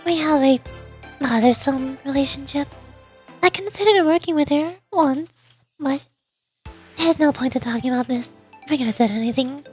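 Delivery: softly measured, lightly voiced leader; understated reserve with small hesitations; composed, guarded president. President discussing Rumi with Sensei, guarded composure. President evades talk of history.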